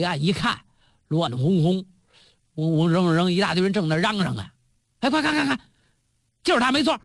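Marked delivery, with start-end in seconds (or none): 5.0-7.0 high, eager "快看看看"; higher, eager call of the lookout; excited spotting. Acted. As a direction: point him out, quick and keen. Killers spot their target.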